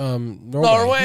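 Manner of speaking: drawn out. Pretend. Playful tour chant.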